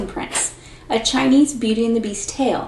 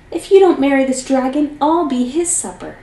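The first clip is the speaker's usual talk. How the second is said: pleading; 5 semitones higher, 4 dB louder than usual. Acted. Farmer begs daughter in terror.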